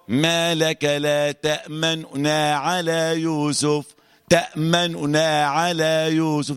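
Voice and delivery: slow recited تأمننا with ishmam; Hafs recitation. Shown as a demonstration. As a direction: recite it the way Hafs reads it, slowly. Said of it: "حفص موجود يعمل كده أهو". (تلاوة حفص بالإشمام)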